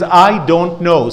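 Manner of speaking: slow, deliberate admission; slow, measured confession; slow demo line. Shown as a demonstration. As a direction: say it slowly and plainly, owning it. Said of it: "Say it with me".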